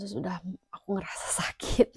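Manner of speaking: breathy laughing whisper; laugh-whispered pain. Retold or imitated. Telling friends about the ambulance ride, laughing in a whisper.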